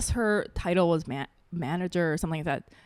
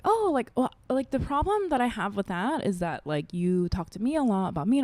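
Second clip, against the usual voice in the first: calm polite tone; 2 semitones higher than usual. Retold or imitated. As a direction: keep it light and civil. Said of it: "that's the tone of voice I had".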